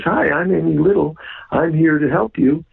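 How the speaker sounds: a touch of a cheerful newcomer offering help; imitating Amy Little. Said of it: "And this kid looks in and says".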